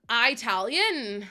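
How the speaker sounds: Italian drawn out slowly as EYE-talian. Retold or imitated. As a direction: stretch Italian, starting EYE. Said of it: "Who says Italian?".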